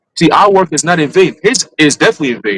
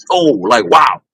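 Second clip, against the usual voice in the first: amazed exclaim; slower than usual. Pretend. Imagined reaction to rapture.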